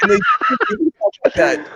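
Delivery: Swedish chef imitation.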